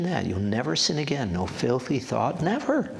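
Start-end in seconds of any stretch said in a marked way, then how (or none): 2.4-2.9 soaring exclamation. Real, not acted. Pastor to congregation, exulting Never. leaps up high.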